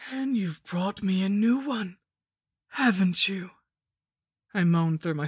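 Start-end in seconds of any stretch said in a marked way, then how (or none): 0.1-3.5 higher gleeful whispered hag voice; cackling witch. Acted. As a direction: gloat like a cackling crone. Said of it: "The Lich cackled".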